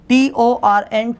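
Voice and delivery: T O R N spelled slowly letter by letter; slow letter-by-letter spelling. Shown as a demonstration. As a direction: spell the word torn for the class. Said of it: "बोलते हैं torn".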